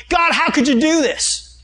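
high, loud, drawn-out mock lament; mock crying. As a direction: wail at God in an acted, accusing complaint. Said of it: "He wasn't crying going".

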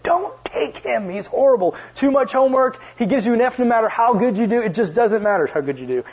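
mock warning about the mean professor; warning students. Students warn the speaker away from the professor, mock dire. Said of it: "the one everyone said".

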